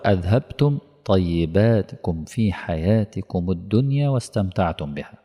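slow, measured recitation of the verse; Quran recitation. Acted. Preacher quoting the verse to his audience, slow and grave. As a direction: intone the verse slowly and gravely.

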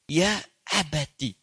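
slow, tender calling of father; tender address. Shown as a demonstration. Son softly calling his father. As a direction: call him gently, with love. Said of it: "panggilan paling indah".

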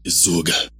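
sad reply. Acted. Adam answers the devil's choice, mildly sad. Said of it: "رد آدم بحزن".

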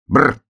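a high, shivering brrr. Acted. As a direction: shudder from the cold out loud. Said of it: "сказал заяц". (дрожащее «бррр»)

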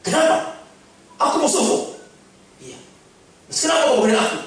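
high, loud, baffled protest; indignant shout. Acted. The pious man yelling at the devil, loud and indignant. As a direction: cry out at the devil in disbelief.

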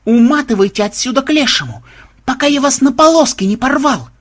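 high-pitched threatening yell. A narrator's reading. Vampire driving hunters off his property, yelling. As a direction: holler it as an angry threat. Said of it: "продолжал орать ксенобайт".

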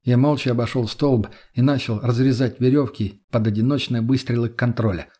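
ordinary delivery

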